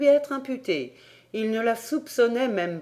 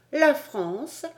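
unruffled, higher-pitched pupil; tranquil reply; 6 semitones higher than usual. A narrator's reading. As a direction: answer calmly, lifting the voice at the end. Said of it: "répondit tranquillement Toliné". (réponse tranquille d'élève)

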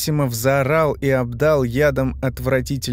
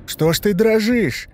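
taunting creature voice; 9 semitones higher, 3 dB louder than usual. A narrator's reading. Monster taunts trembling man.

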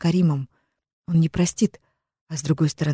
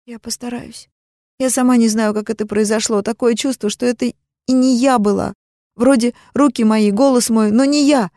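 put-on higher girlish confession, tearful; teen sister confesses the call, higher and tearful; young sister Amina; 6 semitones higher than usual. A narrator's reading. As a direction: confess guiltily as the little sister. Sister explains, voiced higher.

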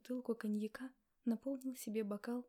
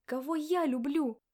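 loud slowed cry; shouted question; 4 semitones higher, 11 dB louder than usual. Acted. Woman crying out at him in the quarrel, loud. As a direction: pour the bitterness into a loud slow cry.

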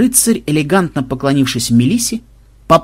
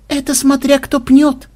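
slow, much higher matter-of-fact; reasoning; 13 semitones higher than usual. A narrator's reading. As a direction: spell it out sensibly. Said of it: "рассудительно заметила Мелисса".

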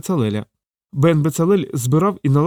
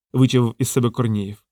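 normal talking voice

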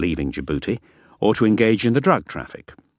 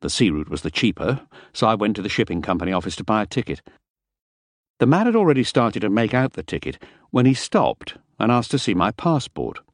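ordinary delivery, nothing marked

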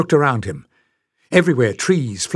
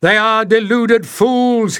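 high, loud, frantic shout; panting shout; 9 semitones higher, 5 dB louder than usual. A narrator's reading. Oris warning the crowd against the strangers, breathless high shout. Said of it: "he panted".

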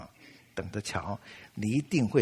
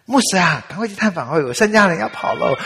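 louder, higher hurried church chairman; urgent phone call; 6 semitones higher, 8 dB louder than usual. Retold or imitated. Chairman phoning the resting pastor, urgent and loud. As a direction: urge the pastor to go visit now. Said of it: "执事会主席打电话来了".

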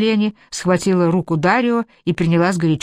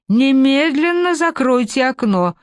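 put-on sharp, raised old woman's command; indignant order; 8 semitones higher, slower than usual. A narrator's reading. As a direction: bark it out, high and outraged. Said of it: "возмутилась старуха".

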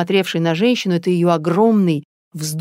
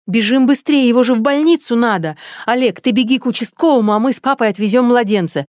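much higher, louder rushed urging; urgent call; 6 semitones higher, 5 dB louder than usual. Acted. Natasha to her family about the baby, urgent loud call. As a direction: drive everyone to move now.

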